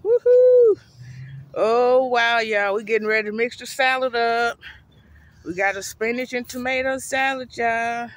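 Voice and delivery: loud, high, hyped whoop; excited shouting. Real, not acted. Vlogger hyping followers up over the salad. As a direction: whoop it up, full of hype.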